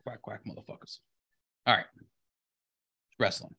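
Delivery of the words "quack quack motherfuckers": duck voice. Pretend. Quacking at the update.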